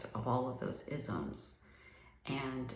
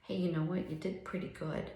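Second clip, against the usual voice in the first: self encouragement; 3 semitones higher than usual. Pretend. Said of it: "giving myself a pat on the back and saying".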